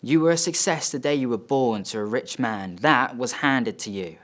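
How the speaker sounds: measured, emphatic reproach; scornful dad. Acted. Dad to son after slapping him, scornful rebuke. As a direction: deliver a father's contempt with weight on each point. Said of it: "And he says".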